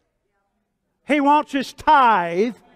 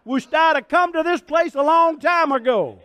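delighted diner; 5 semitones higher than usual. Retold or imitated. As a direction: gush like you just found the best restaurant in town. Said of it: "I go".

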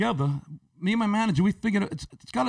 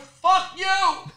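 high, sharp comeback; mock angry comeback to the lady; snapped retort; 11 semitones higher than usual. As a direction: fire it right back at her.

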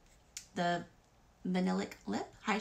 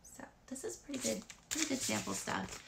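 whisper; 3 semitones higher, 7 dB quieter than usual. Real, not acted.

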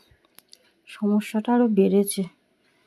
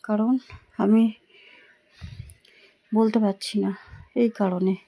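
stop-start phrases from a sore throat; halting speech. Real, not acted. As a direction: break it into pained little bursts. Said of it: "থেমে থেমে বলছি বন্ধুরা".

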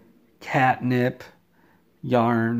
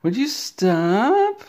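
much higher and louder, a shrill-pitched mock yell; exasperated yell; 11 semitones higher, 7 dB louder, much slower than usual. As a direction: stretch out the second stop, high and slow. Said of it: "Todd kept going over there and saying".

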